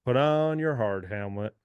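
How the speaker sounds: host sending listeners to the steel mill in a lightly put-on Southern accent. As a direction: call the crew to work in a mild Southern accent. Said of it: "I'm giving you a Southern accent".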